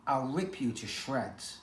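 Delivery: a gravelly street cat warning him off; gravelly threat. Acted. Street cat threatens the newcomer, gravelly and slow. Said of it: "her gravelly voice".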